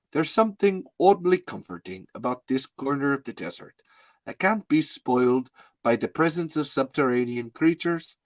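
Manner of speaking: put-on lightly accented author reading his book; measured impression of an author reading; Jonathan Melville. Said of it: "I'm gonna do Jonathan Melville here".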